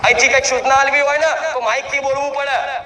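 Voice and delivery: half-played public announcement; mock loudspeaker call. Shown as a demonstration. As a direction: announce it loud like an instruction on the mic. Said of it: "જોરથી બૂમ પાડવી પડે".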